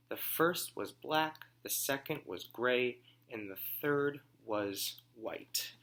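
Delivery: slow, lilting read-aloud voice; reading to children. Acted. Teacher reading the picture book to her class. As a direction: savour each detail for little listeners.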